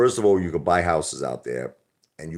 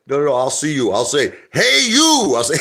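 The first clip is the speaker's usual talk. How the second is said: high, loud playful retold voice, peaking on you; mock Rocky brush-off; 9 semitones higher, 9 dB louder than usual. Rocky dodges the agent, hammed-up and high. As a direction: toss it off like a giddy fighter.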